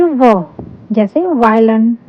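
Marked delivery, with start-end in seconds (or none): 0.0-0.4 "व" as a v sound with short vowel; letter sound demo. Shown as a demonstration. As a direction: sound out "व" for learners. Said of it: "V की sound होती है".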